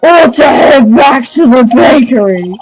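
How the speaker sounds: lightly voiced dim baker; dim-witted voice. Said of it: "I'm gonna get a headache from this voice".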